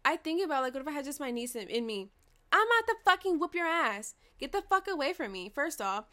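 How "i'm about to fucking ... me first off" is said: raised, higher, mock-fierce warning; heated storytelling threat; retold angry threat. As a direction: act out warning someone off, louder. Retells threatening a woman who approached mom.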